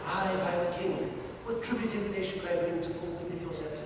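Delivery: resonant, orating gentleman actor; Ronald Colman. Acted. Voice actor quoting the real Ronald Colman's verse, resonant impression. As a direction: declaim it like a classic film star. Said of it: "the real Ronald Colman was".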